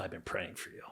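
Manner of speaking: soft, hushed whisper close to the ear. Retelling an earlier time someone whispered: imitating a whisper. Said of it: "now this guy whispers".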